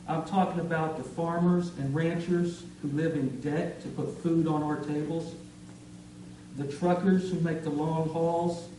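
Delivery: measured poetry reading with punched key words; deliberate list-building cadence with pauses; spoken-word poem. Acted. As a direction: recite it as a tribute, phrase by phrase. Recites a patriotic poem.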